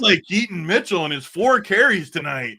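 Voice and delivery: high, loud dopey bro voice; dumb guy voice. Retold or imitated. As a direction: play the dim hype guy. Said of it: "there's the dumb guy voice".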